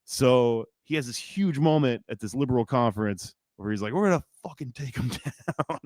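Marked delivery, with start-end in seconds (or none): 3.9-5.8 laughing retold rallying cry. Acted rallying quote broken by laughing.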